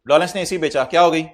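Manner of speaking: loud repeat. Real, not acted. Repeats question to the class.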